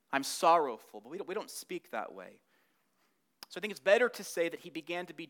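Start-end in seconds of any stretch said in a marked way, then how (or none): 0.0-1.0 mock Jane Austen. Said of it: "sounds like Jane Austen dialogue".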